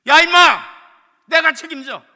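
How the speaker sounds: loud, high forceful order; commanding shout. Retold or imitated. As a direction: bellow that you take the blame. Manager overriding the clerk. (지점장이 직원에게 크게 호통치며 명령)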